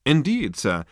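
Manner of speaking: loud, high start dropping on sir; dogged persistence. A narrator's reading. Waiter persists with confused Zaphod, doggedly. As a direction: insist politely but firmly. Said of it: "persisted the waiter doggedly".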